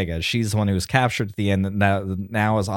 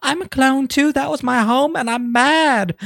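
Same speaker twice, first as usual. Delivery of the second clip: high, put-on voice, indignant; high hammed-up indignant voice; mock mad clone; 13 semitones higher, slower than usual. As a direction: huff it like an offended child. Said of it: "She's like".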